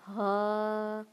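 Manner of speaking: ہا with a warm breath pushed out; airy haa; breathy haa. Shown as a demonstration. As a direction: breathe out the ہا warmly. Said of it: "گرم سانس پھینک کر".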